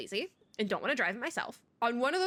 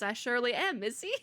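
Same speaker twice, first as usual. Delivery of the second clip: put-on Southern accent; 2 semitones higher than usual. Tuesday answering Barbara on the road, Southern accent. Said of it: "give Tuesday the accent".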